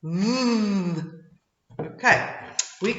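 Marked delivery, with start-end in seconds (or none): 0.0-1.0 V as a voiced th, tongue behind top teeth; voiced th sound. Shown as a demonstration. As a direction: buzz the V like the th in this. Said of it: "can you say V?".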